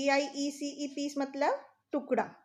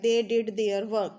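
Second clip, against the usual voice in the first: very slow, word by word; slow teacher dictation; slow example; 3 semitones lower, 4 dB louder, much slower than usual. Shown as a demonstration. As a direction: dictate it slowly to the class. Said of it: "there मतलब होता है उनका".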